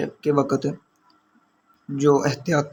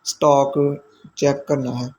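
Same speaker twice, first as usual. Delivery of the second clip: slow repeat; slower than usual. Shown as a demonstration. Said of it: "तो उसने कहा".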